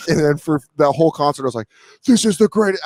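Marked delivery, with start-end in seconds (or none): 2.1-2.8 high-pitched blissed-out rave; hammed-up ecstatic wonder; mock drugged euphoria. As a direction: gush as if rolling at a concert, pitched up. Retold ecstasy high at concert.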